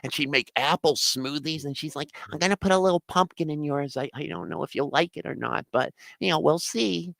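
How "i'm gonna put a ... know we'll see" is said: lightly imitated girlfriend, higher pitched; a hint of a sweet-voiced woman; sweet little voice. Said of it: "she had this sweet little fucking voice".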